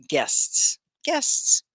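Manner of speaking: GUESTS in one beat, crisp "sts"; one syllable. Shown as a demonstration. Teacher drills the word with students, one syllable. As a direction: repeat GUESTS with the final S sounded. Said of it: "It's one syl".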